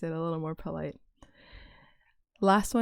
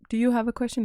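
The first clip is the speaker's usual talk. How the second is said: raised, louder question to a student; asking a question; 4 semitones higher, 5 dB louder, faster than usual. Shown as a demonstration. Teacher asking a confused student, lifted question. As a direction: Do you have a question pitched up and pushed. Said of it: "a very shortened version of that".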